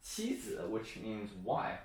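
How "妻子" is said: "妻子" with 妻 high and level; first-tone demo. Shown as a demonstration. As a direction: softly model "妻子", high tone on 妻. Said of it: "The first one is".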